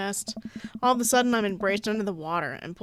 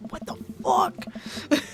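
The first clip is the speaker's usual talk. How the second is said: high, drawn-out disbelief; baffled outburst; 9 semitones higher, much slower than usual. Real, not acted. Streamer baffled by the fishing minigame, high disbelief. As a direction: stretch it out, high and incredulous.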